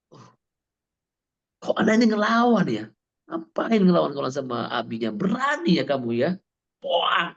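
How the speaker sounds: imitating his old self snapping at his child; mock angry father. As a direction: scold the child who dares fight back. Father scolding his defiant child.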